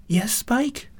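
high, gentle question; gentle, high female character voice; gentle asking. A narrator's reading. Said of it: "she asked gently".

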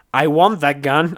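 high, loud, eager demand; excited shout. A narrator's reading. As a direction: shout it out, greedy for the gun. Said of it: "I shouted".

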